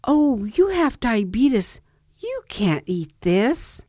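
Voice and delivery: a hint of fake concern, drawn out; mock surprise. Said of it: "jerked it back and said".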